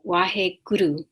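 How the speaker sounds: "Waheguru" with the R rolled in "guru". Shown as a demonstration. Teacher giving an example word, R rolled. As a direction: roll the tongue on the R of "Waheguru". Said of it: "So that R is being rolled".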